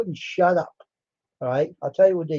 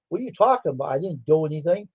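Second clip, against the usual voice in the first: playing innocent. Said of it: "I was playing like I was innocent".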